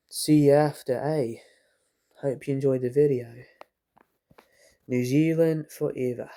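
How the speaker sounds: put-on a playful Kiwi sign-off in a New Zealand accent. Fan signing off his review video in a light New Zealand accent. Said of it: "That was my New Zealand accent".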